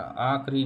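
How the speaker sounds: slow demo of the faulty आखरी; faulty आखरी, said slowly; wrong form, repeated. Shown as a demonstration. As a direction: drag out आखरी without the i after ख. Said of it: "आखिरी नहीं".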